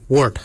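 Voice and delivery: "wart" as the Noongar word for throat; Noongar pronunciation. Shown as a demonstration. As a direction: model "wart" clearly for learners. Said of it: "Wart is spelled".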